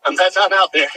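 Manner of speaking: breathless after running; panting between words; out of breath. Real, not acted. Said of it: "If I'm out of breath".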